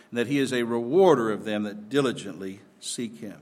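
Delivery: emphatic pulpit reading, phrase by phrase; scripture reading. Real, not acted. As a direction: read the verses out with preacher's conviction. Reads scripture aloud to congregation.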